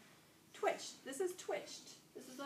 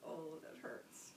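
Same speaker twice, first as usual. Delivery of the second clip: acted pain; 6 semitones lower, 8 dB quieter, much slower than usual. Shown as a demonstration. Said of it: "your body does this".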